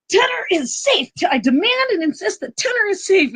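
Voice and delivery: high-pitched insistent mock yell; retold yell. Parent declaring a son safe, high re-enacted yell. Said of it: "I yelled".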